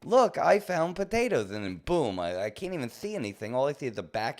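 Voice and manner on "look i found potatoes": high and loud, gleeful; mock excited discovery. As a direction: play yourself finding treasure. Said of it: "I'm like".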